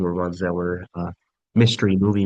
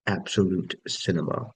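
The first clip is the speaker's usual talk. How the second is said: imitating a roommate, softer and hushed; a softer, hushed, mock-reverent absolute cinema; mock awed roommate; 5 dB quieter than usual. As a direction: breathe it out like a reverent fan. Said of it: "to reenact what one of my roommates did".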